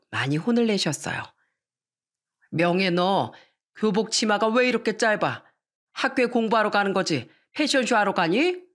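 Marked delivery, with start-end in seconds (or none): 2.5-8.6 a hint of a strict dad, sharp; stern father scolding. Strict father scolding daughter over her short school skirt.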